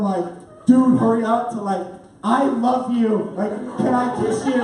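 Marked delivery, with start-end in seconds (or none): 0.6-1.5 impatient turnabout. Retold or imitated. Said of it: "I totally turned from". 2.2-4.6 adoring. Retold or imitated. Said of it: "I totally turned from".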